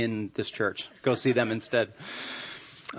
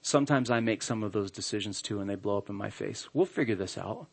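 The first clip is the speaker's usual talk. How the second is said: softer, lower, gently talking him down; gentle reassurance; 4 semitones lower, 6 dB quieter than usual. Shown as a demonstration. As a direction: soothe him like a supportive wife. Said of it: "Find a way to say".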